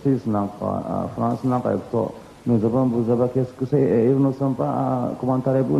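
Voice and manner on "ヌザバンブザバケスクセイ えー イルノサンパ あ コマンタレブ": fast, lightly higher fake French; mock French gibberish. Imitating the French he heard in Paris, fast mock French. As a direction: rattle off pretend French like a Parisian. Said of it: "なんてなことを言いますけども".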